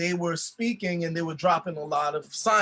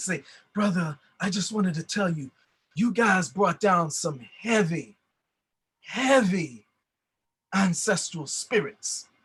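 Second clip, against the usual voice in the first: whispery voice, slower pace. Quoting a man who came to tell him about spirits, whispery voice. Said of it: "He had a very whispery voice".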